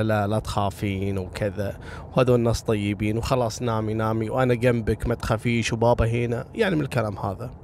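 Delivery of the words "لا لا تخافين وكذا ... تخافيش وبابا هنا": soothing mother. Retold or imitated. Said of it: "الأم قعدت تضحك وتقول لها".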